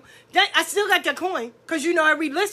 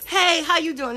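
fake friendly; 3 semitones higher than usual. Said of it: "But when the person come".

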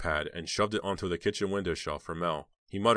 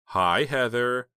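slow, high squeaky greeting; hoarse, squeaky voice; 6 semitones higher, 6 dB louder, much slower than usual. A narrator's reading. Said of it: "recognized the hoarse, squeaky voice".

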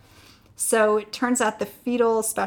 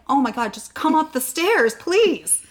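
louder, high-pitched mock exasperation; exasperated plea; 6 semitones higher, 8 dB louder than usual. Wife begging husband to climb the stairs, exasperated plea. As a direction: plead with a rising, impatient push.

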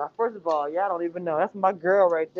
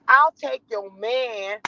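Jasmine voice; slower than usual. Pretend. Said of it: "I'm doing that voice".

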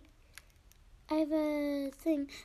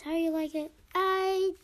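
man doing a woman's voice. Pretend. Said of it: "So I gotta do my girl voice".

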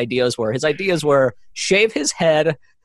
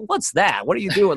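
higher, acted-out baffled reaction; mock bewilderment; 5 semitones higher than usual. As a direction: play at being thrown by a weird surprise. Imagines himself reacting, shocked.

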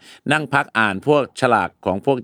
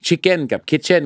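slow word contrast; 5 semitones higher, much slower than usual. Shown as a demonstration. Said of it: "จะได้ยินสลับกัน".

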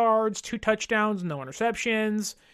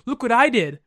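mock bragging; 5 dB louder than usual.

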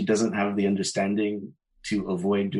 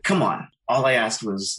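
mock exasperated objection, pitched up; imitated protest; 3 semitones higher, 4 dB louder than usual. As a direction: protest as the affronted neighbor. Imitating neighbor's defensive protest.

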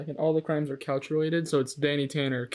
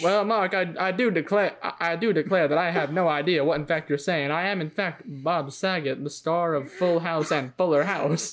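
Southern belle. Pretend. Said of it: "it became like Southern Belle".

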